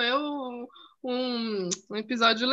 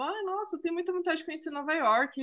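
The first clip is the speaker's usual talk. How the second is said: mock eager gush; 5 semitones higher, 4 dB quieter than usual. Retelling her eager chat reply.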